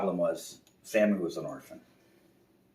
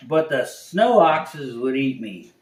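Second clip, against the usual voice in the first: slow, higher, louder whimper; fearful bear; 7 semitones higher, 9 dB louder, slower than usual. Acted. Bear to the owl, slow scared plea. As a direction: plead like a scared cub. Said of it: "And Sammy said".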